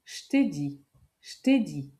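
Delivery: "je" squeezed to a sh sound, "sht'ai dit"; casual spoken. Shown as a demonstration. Teacher to learner, giving the answer, casual. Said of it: "Ça se prononce".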